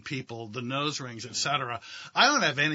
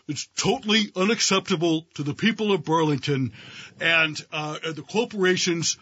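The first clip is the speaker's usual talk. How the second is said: Bernie impression. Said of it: "doing a stand-up routine of his own".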